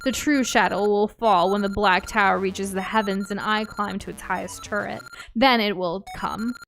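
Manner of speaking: menacing villain monologue, hammed up.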